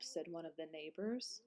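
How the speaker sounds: usual speaking voice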